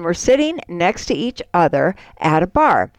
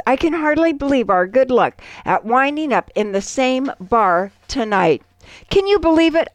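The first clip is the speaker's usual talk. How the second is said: a bit higher, amazed exclaiming; 4 semitones higher than usual. Acted. Joke character marvels at the coincidence, mildly excited exclaiming. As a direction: marvel at the luck, a touch raised. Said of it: "The first guy exclaims".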